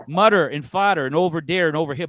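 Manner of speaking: demonstrating Newfoundland speech on "mutter and fodder"; Newfoundland accent. Shown as a demonstration. Guest showing hosts how Newfoundlanders talk, Newfoundland accent. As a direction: North Jersey-like Newfoundland accent without Italian inflection. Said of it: "like, a North Jersey accent minus the gabagool".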